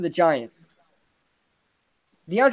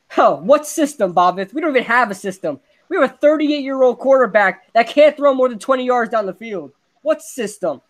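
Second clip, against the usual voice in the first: incredulous, rising fan rant, a touch louder; exasperated rant; 5 semitones higher, 3 dB louder than usual. Real, not acted. Fan scoffing at the podcast guest's claim, exasperated. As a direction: scoff at the idea of a system. Fan ranting about the team's system.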